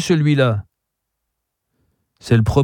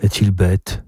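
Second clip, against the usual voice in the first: gently; 4 semitones lower than usual. A narrator's reading. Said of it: "dit doucement Marceline".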